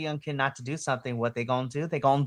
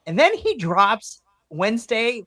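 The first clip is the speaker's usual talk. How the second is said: usual speaking voice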